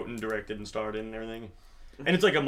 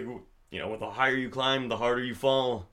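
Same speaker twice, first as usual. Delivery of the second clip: deadpan. Retold or imitated. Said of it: "It's, like, super deadpan".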